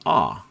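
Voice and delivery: "ah" as an open British vowel with no r. Shown as a demonstration. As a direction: drop the r and open up to "ah". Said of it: "British accent, it's more of a".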